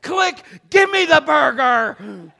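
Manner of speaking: high, loud, slow demand through laughter; fed-up dad grabbing the burger back; laughing mock shout. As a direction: bark it out, half laughing.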